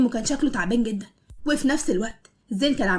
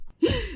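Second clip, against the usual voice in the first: shocked gasp; 10 semitones higher, 4 dB quieter than usual. Acted. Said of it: "بيصوت من الصدمة".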